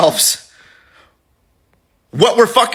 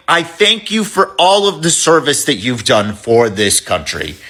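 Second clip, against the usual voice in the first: Obama's baritone; 5 semitones lower than usual. Retold or imitated. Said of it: "deep, amazing baritone voice".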